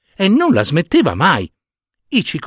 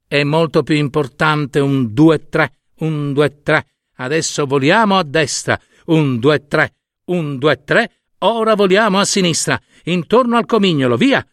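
a lightly raised, lively mother stork voice counting the beats; mother stork teaching; 3 semitones higher than usual. Acted. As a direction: coach the chicks with bright, rhythmic counting.

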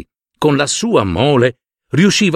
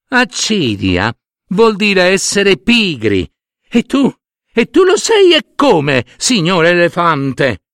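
high, pointed little voice; ant voice explaining; 4 semitones higher than usual. Acted. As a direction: school the lazy giant. Ants explain, accuse elephant. (formiche che spiegano e accusano l'elefante)

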